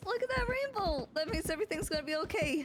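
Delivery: change the subject with put-on cheer; cheery deflection. Player dodges friend's worry about feelings, cheery deflection.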